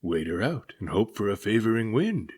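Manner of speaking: put-on old captain grumbles on becalmed deck; growling captain. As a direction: growl out your dismay. Captain voiced.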